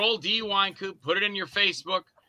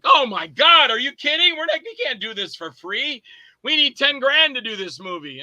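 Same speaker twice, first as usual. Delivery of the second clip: much higher and louder, near a shout; shocked outcry; 7 semitones higher, 5 dB louder than usual. Retold or imitated. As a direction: cry out in disbelief. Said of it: "and they were like".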